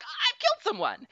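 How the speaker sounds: high mock horror; shocked girl. Heroine finding out she killed someone, high mock horror. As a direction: squeak it out in pretend shock. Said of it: "So she's like".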